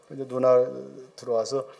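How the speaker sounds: usual speaking voice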